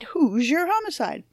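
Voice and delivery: game show announcer. Shown as a demonstration. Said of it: "it sounds like a game show".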